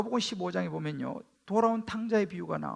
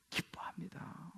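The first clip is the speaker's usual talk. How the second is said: whisper; 4 semitones lower, 18 dB quieter, slower than usual. Real, not acted. Preacher drops to whisper.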